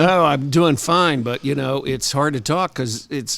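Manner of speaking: talking through real laughter; words breaking up with laughs; laughing while talking. Real, not acted. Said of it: "I'm laughing so much at you guys".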